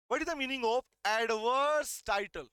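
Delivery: slow, deliberate reading of the law text; slow dictation. Shown as a demonstration. Teacher dictating slowly to students. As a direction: dictate each word slowly to the class. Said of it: "ये क्या लिखा?".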